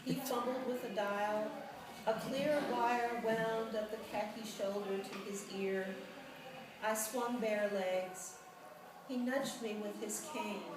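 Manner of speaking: measured, level poem recital; poetry reading. A narrator's reading. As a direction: read the poem aloud, evenly, pausing between lines. Reads her poem aloud.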